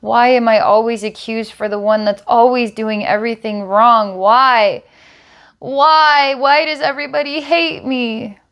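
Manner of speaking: put-on a hurt little girl pleading through tears; crying little girl. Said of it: "she starts to cry and say".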